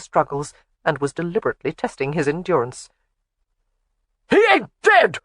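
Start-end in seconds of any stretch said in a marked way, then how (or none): 4.3-5.2 high, loud astonished cry; astonished shout. A narrator's reading. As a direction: cry it out in amazement. Laird astonished son lives.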